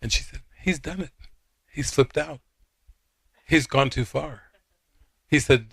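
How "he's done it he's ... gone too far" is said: mildly agitated retelling, pitch lifted; upset. Retold or imitated. Upset friend complaining about Jesus, mildly indignant. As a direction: imitate an upset friend, a bit higher. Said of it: "like, really upset".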